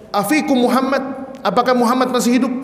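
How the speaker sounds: high-pitched calling out, not full volume; mock a commander yelling a question; imitated shout. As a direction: call out high, like a taunting enemy. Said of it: "Abu Sufyan berteriak".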